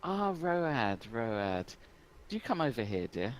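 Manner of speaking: sweetly summoning someone over; Listy. Acted. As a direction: draw out the first call, then coax. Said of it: "Listy looks round and she says".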